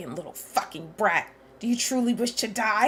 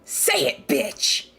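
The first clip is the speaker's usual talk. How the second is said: angry shout; 7 semitones lower, 6 dB louder, much slower than usual. Acted. Sora demanding Nikke speak, angry shout. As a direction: snap it out at him, louder.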